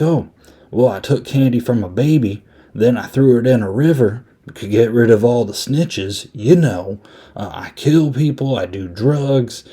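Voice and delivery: lightly voiced flippant pimp; mock confession, tossed off in a lilting character voice; Frankie the Mermaid. Pimp listing sins to the priest, mildly flippant. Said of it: "Frankie's not really taking it seriously".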